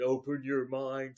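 lightly voiced slow creature; slow, drawn-out creature plea; little creature from the shirt. Comic imagining a fella under the shirt, slow creature voice. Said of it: "a little fucking fella's, like, there going".

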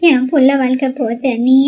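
slow, high wailing lament; a mother crying over her daughter's ruined future. Acted. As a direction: wail it out to your sister-in-law. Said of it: "ஏம்மா உங்க அம்மா இப்படி அழுவுறா?".

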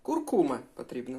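Куркума with stress on КУМ; correct stress. Shown as a demonstration. Teacher repeating the correct stress on Куркума for viewers. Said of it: "Наголос на куркума".

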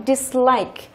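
"dislike" drawn out, main stress on like. Shown as a demonstration. Teacher shows that prefixes are unstressed, slow "dislike" stressed on like. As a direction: slowly model "dislike", stressing like, not dis. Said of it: "Nó rơi vào cái like".

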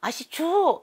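put-on high, loud child's cry; a spirit child's voice bursting out. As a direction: let a demanding little child speak through you. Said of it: "얼라 소리가 나옵니다".

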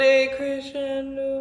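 slow, drawn-out decrescendo; slow demo. Shown as a demonstration. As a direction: decrescendo said slowly as an example. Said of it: "that is called crescendo and decrescendo".

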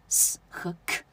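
s and k as bare voiceless sounds, not letter names; s和k, each consonant sounded alone; phonetic sounds. Shown as a demonstration. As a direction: hiss the s and click out an airy k. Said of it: "音标都是这个s和k在一起".

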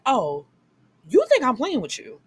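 hammed-up outrage at the cheating husband; mock angry challenge. Wife confronting cheating husband, gun.

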